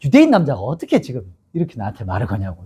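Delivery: low, softened cold retort; a touch of frostiness, pitched low. Retold or imitated. Samaritan woman to the Jewish man asking for water, coldly. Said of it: "쌀쌀맞게".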